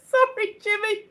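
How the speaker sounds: high, giggly sorry; laughing apology. Real, not acted. Host apologising to Jimmy after the impression, laughing. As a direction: apologise through helpless giggles.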